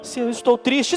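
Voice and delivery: lightly demonstrated sadness; a touch of sadness, at everyday volume; understated sad example; sad demo. Shown as a demonstration. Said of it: "por causa da musicalidade".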